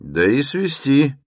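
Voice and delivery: high, eager chiming in; emboldened. A narrator's reading. Townsman seconds taking him in, emboldened and high. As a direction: jump in with new confidence. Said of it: "подхватил ободрившийся мещанин".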